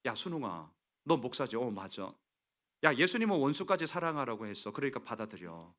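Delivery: advising friend. Retold or imitated. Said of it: "이 인간이 이렇게 나한테 얘기하네요".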